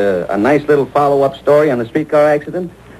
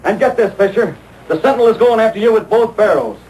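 angry outburst; 5 semitones higher than usual. Acted. Reporter storms out after bribe.

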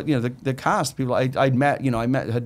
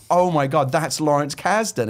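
said loudly; 4 semitones higher, 3 dB louder, slower than usual. Retold or imitated. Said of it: "I just said it really loudly".

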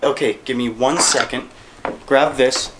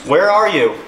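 calling out; 6 semitones higher, 5 dB louder than usual. Real, not acted. Calling out to spirits.

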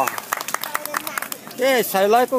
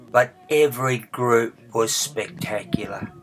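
town crier. Real, not acted. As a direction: announce the acts like a herald. Town crier lists festival acts.

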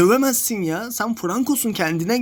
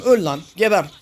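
angry curse; 3 semitones lower, 4 dB louder than usual. Real, not acted. Yelling at enemy in game.

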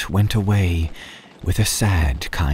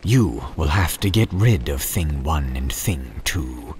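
a higher, urgent fretful fish; frightened fish; 4 semitones higher than usual. Acted. Fish urging the boy that mother is near, frightened. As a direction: hurry them in a panic.

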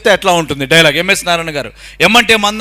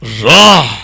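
slow, low, soft villain with heavy breaths; Arundhati villain; 7 semitones lower, 5 dB quieter, slower than usual. Acted. Mimic as the villain asking Arundhati for water, slow hushed menace. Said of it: "ఒరిజినల్గా dialogue ఎట్లా ఉంటుంది".

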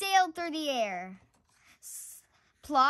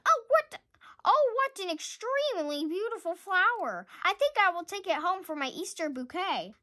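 put-on a much higher, gushing little girl; a girl gushes, much higher, over a pretty flower; girly delight; 5 semitones higher than usual.

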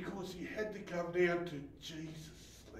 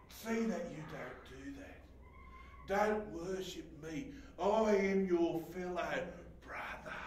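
scripture reading. Acted. Reading scripture aloud quietly.

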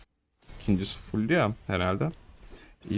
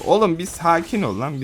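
higher, louder mocking scold; mock angry teammate; 7 semitones higher, 5 dB louder than usual. Reading out a teammate's chat, mock angry scold. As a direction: throw the teammate's typed rant back at him. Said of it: "Adam hemen yazıyor".

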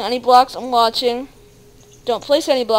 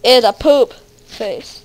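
shrieking through a cry; crying shout; 4 dB louder, slower than usual. Real, not acted. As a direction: wail it in shock. Scary image appears.

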